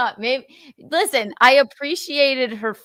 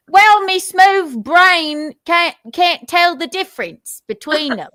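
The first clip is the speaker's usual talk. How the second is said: silly dim voice; 5 semitones higher, 5 dB louder than usual. Pretend. Host mocks himself in silly voice.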